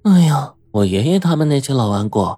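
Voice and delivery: a light pouty whine; pouting complaint. Acted. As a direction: grumble with a pout. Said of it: "嘟着嘴埋怨道".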